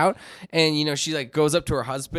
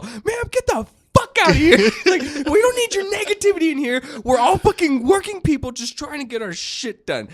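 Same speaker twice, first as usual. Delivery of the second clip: high put-on voice with laughter; laughing mock customer; 13 semitones higher than usual. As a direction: tell her off in a squeaky parody. Customer tells wife off.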